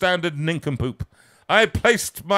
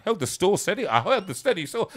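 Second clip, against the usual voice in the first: tongue-tied; 4 semitones higher than usual. Real, not acted. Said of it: "Can't even say the word".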